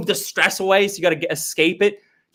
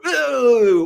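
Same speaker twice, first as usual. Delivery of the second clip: high scoffing ooh; a mock shocked ooh; 6 semitones higher than usual. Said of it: "just go".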